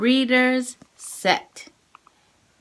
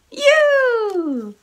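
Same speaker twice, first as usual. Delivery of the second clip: big voice; 9 semitones higher than usual. Shown as a demonstration. Teacher shouting sight words for kids to repeat. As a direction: shout the word out for the class. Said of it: "Big voice".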